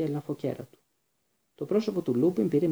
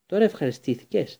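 louder, rough jab; harsh retort; 4 semitones higher, 4 dB louder than usual. Acted. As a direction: snap it at her bitterly. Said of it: "είπε τραχιά ο Ρον".

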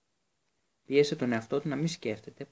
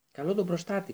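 screamed; 6 semitones higher than usual. A narrator's reading. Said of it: "κράβγασε ο Χάρη".

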